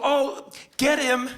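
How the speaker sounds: a hint of a fussy, dainty spectator; lightly voiced delicate fan worrying about stains; prissy fan. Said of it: "you don't go".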